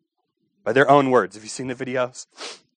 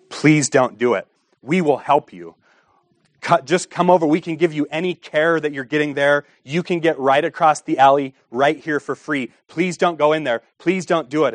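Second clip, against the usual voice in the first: higher, urgent pleading with a passing woman; 5 semitones higher than usual. Retold or imitated. Sidewalk counselor pleading with a woman to turn back. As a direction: beg her not to go in, kindly. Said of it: "the sound of people pleading".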